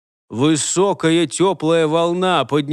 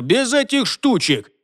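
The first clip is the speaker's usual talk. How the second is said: urgent protest; 7 semitones higher than usual. A narrator's reading. Holger leaps in to stop spell.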